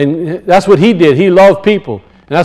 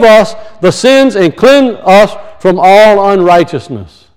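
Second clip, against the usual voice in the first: raised, declamatory Bible reading; emphatic scripture reading; 3 semitones higher than usual. Acted. Preacher reading the congregation First John, emphatic proclamation. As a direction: proclaim the verse firmly, phrase by phrase.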